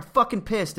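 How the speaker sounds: high, exaggerated grumpy snap; mock pissed off. Stressed commuter venting at a friend, mock angry. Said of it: "And you're like".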